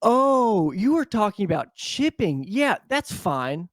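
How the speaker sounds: put-on high, slow, sheepish old man; mock old man suddenly fine with it; old man backing down. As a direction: back down all sweet and sheepish, drawn out. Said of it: "And he goes".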